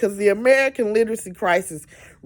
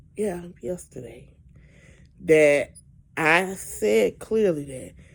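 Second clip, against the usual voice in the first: very slow, drawn-out delivery. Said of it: "let me say this real, real slow".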